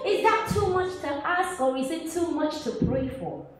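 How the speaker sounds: suddenly soft, small questioning; hurt plea. Acted. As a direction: drop to a quiet, wounded appeal. Wounded plea after the outburst.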